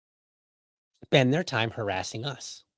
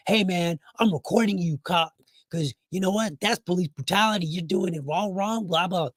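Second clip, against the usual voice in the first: higher-pitched protesting citizen; mock yelling bystander; 6 semitones higher than usual. Citizen filming a police officer, mock indignant yelling. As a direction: heckle in a raised pitch without real shouting. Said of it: "I'm yelling at the police officer".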